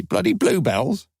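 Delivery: mock the bluebells with disdain; scornful snort. A narrator's reading. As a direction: scoff at the very idea. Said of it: "She snorted her derision".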